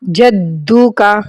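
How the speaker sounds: جدو with the jeem and doubled dal pressed hard; stress on جدو. Shown as a demonstration. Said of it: "جیم اور دال پہ زور دے کر پڑھنا ہے".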